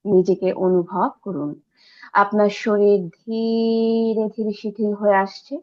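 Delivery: meditation guide, key words drawn out; guided meditation. Real, not acted. Guide settling listeners into relaxed sitting, meditative and drawn out. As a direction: ease them into stillness, stretching the soothing words.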